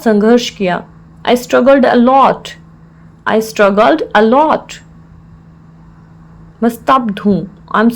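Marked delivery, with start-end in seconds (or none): 3.3-4.8 slow, word-by-word teaching delivery; slow repeat. Shown as a demonstration. Teacher repeats the English phrase for learners, slowly.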